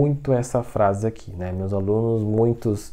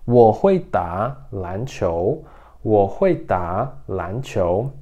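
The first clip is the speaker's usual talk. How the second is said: slow, careful Mandarin demo; slow teacher modelling Mandarin; slow model sentence; 3 semitones lower, much slower than usual. Shown as a demonstration. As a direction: say it slowly for students to repeat. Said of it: "teacher models Mandarin sentence".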